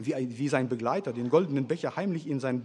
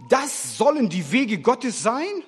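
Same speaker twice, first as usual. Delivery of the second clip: higher, louder and slow, appalled; horrified outcry; 8 semitones higher, 8 dB louder, slower than usual. A narrator's reading. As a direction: cry out in shock and anger. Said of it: "rief er entsetzt". (entsetzter, lauter Aufschrei)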